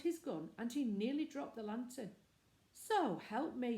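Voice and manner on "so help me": slow, louder exclamation of surprise; a keeper blurting out in shock; drawn-out loud gasp of disbelief; startled cry. Acted. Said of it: "he cried".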